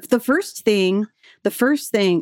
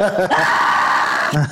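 mock scream of a whole audience; mock "aah" scream; imitated crowd scream; 6 semitones lower than usual. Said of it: "followed by screams".

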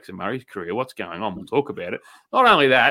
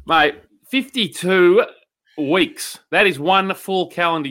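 excited emphasis; 5 semitones higher, 5 dB louder, slower than usual. Real, not acted. Hyping the milestone.

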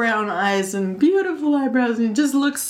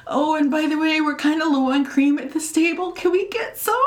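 laughing awkward request; 5 semitones higher than usual. Retold or imitated. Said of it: "And I'm like".

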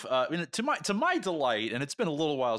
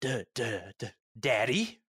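stammering. Acted. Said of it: "Sheridan stammered".

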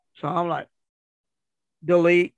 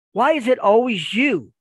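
high, loud, incredulous complaint; mock a wife at her wits' end; imitated exasperated wife; 5 semitones higher, 5 dB louder than usual. Wife asks husband why it's always him, mock exasperation.

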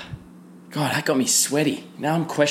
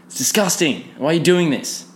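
higher-pitched mock disgust at a friend; disgusted outburst; 4 semitones higher than usual. Calling across the room to a nose-picking mate, higher, disgusted. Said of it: "and you'll be like".

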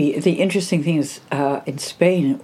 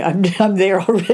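laughing as the calm hits; bubbling with a laugh; 2 semitones higher, 4 dB louder than usual. Real, not acted. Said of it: "oh, sorry".

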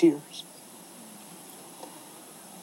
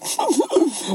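high-pitched mock crying burst; mock sob; 13 semitones higher than usual. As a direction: wail briefly, hammed-up. Reenacts crying under the desk.

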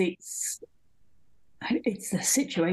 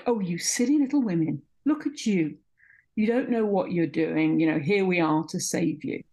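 condescending mock. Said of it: "It is so condescending".

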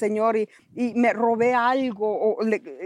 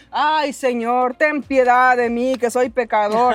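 mock weeping plea; 4 dB louder, slower than usual. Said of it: "él lloraba".

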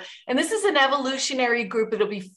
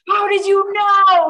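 high, loud mock outburst; exaggerated shriek of astonishment; retold freak-out; 10 semitones higher, 9 dB louder than usual. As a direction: imitate people yelling in shocked disbelief. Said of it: "the people freak out".

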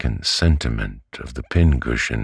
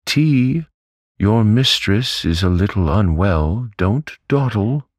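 much higher, louder brisk order; Betsy orders the maid about, higher and louder; commanding mandate; 10 semitones higher, 4 dB louder than usual. A narrator's reading. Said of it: "having issued this mandate".

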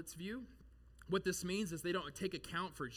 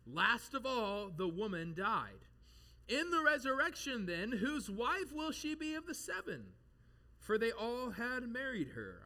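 slow, higher-pitched mock-innocent question; smart-alecky; 6 semitones higher, 3 dB louder than usual. Sadducees testing Jesus about the resurrection, smart-alecky. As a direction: draw it out like a know-it-all springing a trap. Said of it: "Sadducees were being real smart alecky".

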